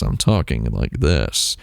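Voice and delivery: low, close-mic gaming voice; dropping low right into the mic; mouth on the mic. Shown as a demonstration. Showing viewers how he talks into the mic, low and close. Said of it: "I'm talking into it like this".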